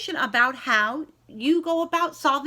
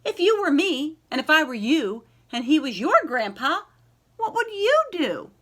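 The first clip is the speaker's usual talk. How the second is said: put-on pleading little girl; 2 semitones higher, 4 dB louder than usual. Child pleads to the clerk.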